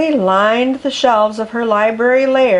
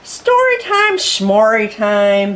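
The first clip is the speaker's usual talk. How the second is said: dismissive snort; slower than usual. Acted. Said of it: "blew Miss Lotta Scales".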